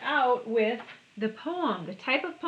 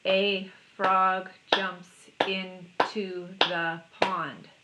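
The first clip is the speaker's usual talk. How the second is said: "A frog jumps into the pond" slowly, beat by beat; "A frog jumps into the pond" in seven spaced beats; counted syllables; much slower than usual. Shown as a demonstration. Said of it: "Seven syllables".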